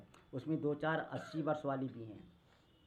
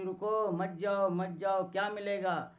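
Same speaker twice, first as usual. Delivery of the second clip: lightly acted higher, insistent protest; urgent dissuading; 4 semitones higher, 4 dB louder than usual. Old woman stopping the young women from following, urgent protest. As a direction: hold them back with a raised pitch.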